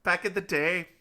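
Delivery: sing-song comic Scottish brogue; rambling, hammed-up Scottish storyteller; put-on Scottish accent. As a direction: tell a tall tale in a mock Scottish accent. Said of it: "with just this accent I have right now".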